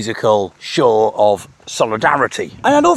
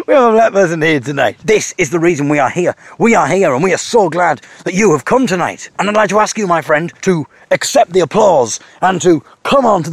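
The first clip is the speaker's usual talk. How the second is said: lightly hammed-up compere on a mic; gushing MC; 4 semitones higher than usual. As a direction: hype the crowd from the stage. MC hyping the crowd.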